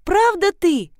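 put-on a small boy who can't believe it; eager child. A son asks his mother if it's really her, eager.

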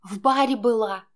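crying woman shouts out; woman shouting in tears. A narrator's reading. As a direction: yell it back at him, weeping. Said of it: "закричала она".

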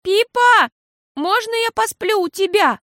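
high, loud call across the room. A narrator's reading. Girl calls to Pippa across the room, high loud call. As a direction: call out to her sister. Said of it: "крикнула Фиасоль".

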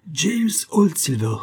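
lightly voiced mocking madman, drawn out slowly; sing-song taunt, the name stretched; odious mocking laugh-voice. A narrator's reading. The madman taunting James by name, mocking. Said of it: "Le rire odieux de Big Johnson".

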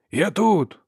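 high-pitched answering holler; man calling back. A narrator's reading. Brother answers his sister, calling out. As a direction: call back from a distance. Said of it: "вигукнув він знову".

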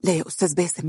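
tense, hushed plea; tense protest into the phone; nervous. Acted. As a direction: nervously push back on a caller. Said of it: "تقول بتوتر".

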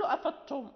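أفضتم said with the ض dropped, a light laugh; dad lost. Shown as a demonstration. Teacher laughing at a reader who drops the dad. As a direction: drop the ض from أفضتم, amused. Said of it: "فأين الضاد؟ ذهبت".

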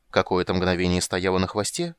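ordinary delivery, nothing marked

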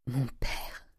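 very soft, stricken murmur; stunned grief. Acted. Nephew learning of his father's suicide, stunned and hushed. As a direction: barely get it out, in shock. Fils apprend le suicide du père.

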